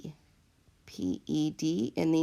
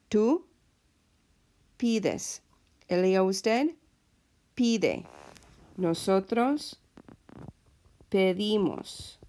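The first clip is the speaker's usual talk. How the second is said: slow, careful; slower than usual. Shown as a demonstration. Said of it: "You hear that difference".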